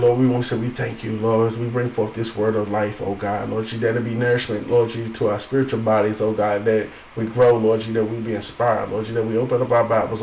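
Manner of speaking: steady, running pastoral prayer. Real, not acted. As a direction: pray straight through in an even, subdued tone. Leads the opening prayer.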